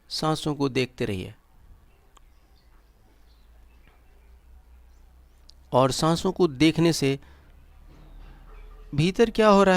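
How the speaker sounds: measured meditation guide with long pauses; guided meditation. Acted. Guide leading listeners into breath awareness and relaxation, guided meditation. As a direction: guide them step by step, leaving silences between instructions.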